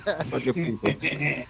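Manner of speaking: slow disgusted remark. Real, not acted. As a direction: drag it out in disgust. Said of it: "disgusted closing remark".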